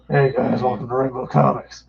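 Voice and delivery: a mild, lightly voiced Kilowog greeting; playful nod to the alien drill sergeant. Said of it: "It's Kilowog voice".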